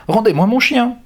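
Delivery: high, loud desperate cry; yelling. A narrator's reading. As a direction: scream for your dog. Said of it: "hurle Claude".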